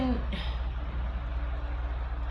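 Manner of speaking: soft breathy exhale; long weary sigh. Real, not acted. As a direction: sigh out all the air. Heavy sigh.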